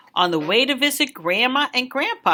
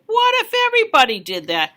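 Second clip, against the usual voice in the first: fast, higher scold; exasperated official; 5 semitones higher, faster than usual. Acted. Football official scolding the kid on the field, fast. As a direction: call out the kid quickly. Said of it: "waved his arms and said".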